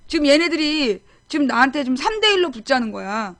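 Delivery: ordinary talk, nothing marked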